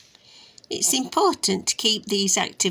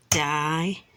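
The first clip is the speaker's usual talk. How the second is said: di, no, saur in three separate beats; tapped-out syllables; 2 semitones lower than usual. Shown as a demonstration. Counting taps with a child, syllables separated. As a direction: leave a clear gap after each part of dinosaur. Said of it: "Let's tap that out".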